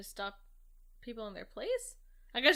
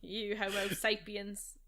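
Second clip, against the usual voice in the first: slow, badly faked Scottish accent; wobbly mock-Scottish villain; failed Scottish accent; 3 semitones lower, 5 dB quieter, slower than usual. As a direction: try a Scottish villain voice, drawn out. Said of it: "I can't do a Scottish accent anymore".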